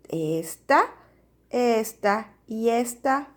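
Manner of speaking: "esta" set apart slowly, piece by piece; rhyme ending demonstrated. Shown as a demonstration. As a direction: isolate the shared ending "esta" for the class. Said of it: "la misma sílaba".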